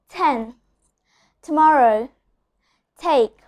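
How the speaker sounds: ten, tomorrow, take with every T crisp and aspirated; strong clear T. Shown as a demonstration. Teacher demonstrating a strong initial T. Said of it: "here I'm pronouncing a very strong and a very clear T".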